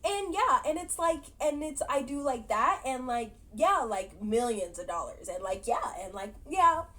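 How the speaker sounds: mock tongue-tied babbling; nervous rambling. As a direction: imitate someone rambling on with no point. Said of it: "this long rambling thing".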